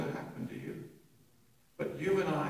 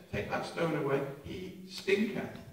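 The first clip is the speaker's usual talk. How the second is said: King James English; 4 semitones higher than usual. Retold or imitated. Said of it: "something in the authorized version".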